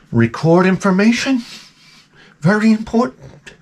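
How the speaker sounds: hushed, pompous official; self-important clipboard guy. Retold or imitated. Mocking a clipboard carrier, hushed and pompous. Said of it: "Somebody with a clipboard".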